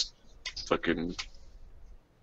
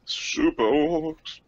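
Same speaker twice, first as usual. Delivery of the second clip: slow mock awe; 7 semitones higher, 3 dB quieter, much slower than usual. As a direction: draw out super orcs slowly. Repeating the joke slowly.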